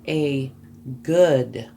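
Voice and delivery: "good" set apart by a pause and said loudly; emphasis on good. Real, not acted. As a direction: lean hard on "good". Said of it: "I'm emphasizing the word good".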